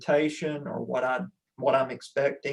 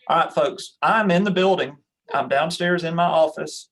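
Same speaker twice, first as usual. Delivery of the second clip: raised, louder call to the class; yelling across the room; 3 semitones higher, 4 dB louder than usual. Real, not acted. Calling out to the room.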